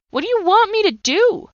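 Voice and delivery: breaking-point plea to God; anguished cry. Retold or imitated. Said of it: "I yelled and I screamed".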